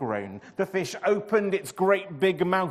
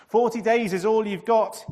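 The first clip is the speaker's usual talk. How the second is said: higher, louder stern warning; 8 semitones higher, 10 dB louder than usual. A narrator's reading. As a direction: warn the city firmly. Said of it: "he warned them".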